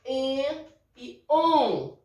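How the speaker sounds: en and on drawn out slowly through the nose; slow nasal vowels. Shown as a demonstration. Teacher modelling tilde nasal vowels for pupils, slow. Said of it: "Então, vai ficar an".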